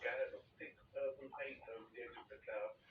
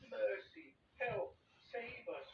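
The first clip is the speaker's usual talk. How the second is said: high panicked cries for help; frightened cry; 10 semitones higher, 3 dB louder, much slower than usual. A narrator's reading. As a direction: squeal it out in terror. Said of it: "cried the ladybird".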